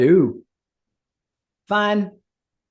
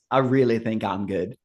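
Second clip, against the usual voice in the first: grimacing refusal. Acted. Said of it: "She gives another grimace".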